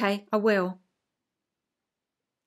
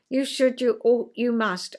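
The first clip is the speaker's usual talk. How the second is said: stern parent. Retold or imitated. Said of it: "in answer to parent".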